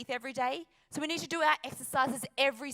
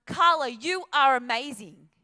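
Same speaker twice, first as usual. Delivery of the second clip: mirror affirmation; 8 dB louder than usual. Retold or imitated. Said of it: "I started saying to myself".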